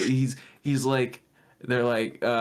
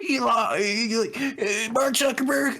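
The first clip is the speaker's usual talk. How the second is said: mocking Ted Cruz; faster than usual. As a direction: mimic a preachy senator, half crying. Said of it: "That fucking Ted Cruz was there like".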